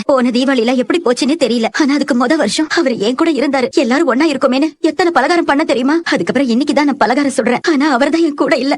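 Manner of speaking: on the verge of tears, remembering someone missed; grieving mother, holding back tears; tearful. Acted. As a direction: let the sorrow show gently. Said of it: "அழாதம்மா, நீ அழுதா".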